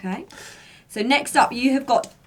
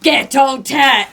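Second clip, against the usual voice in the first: Ghetto Tech in a slow Welsh accent; 3 dB louder, slower than usual. Shown as a demonstration. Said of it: "in a Welsh accent?".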